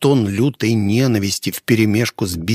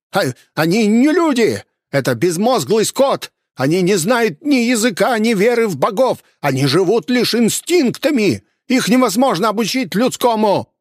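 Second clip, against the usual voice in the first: much higher, frantic shouting; 11 semitones higher than usual. A narrator's reading. Innkeeper shrieking defence at the hunter, high frantic. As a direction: defend yourself in a frenzy.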